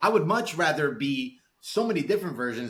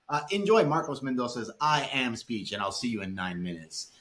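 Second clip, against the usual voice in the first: mock show host; 3 semitones higher than usual. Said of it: "And then you play the speech".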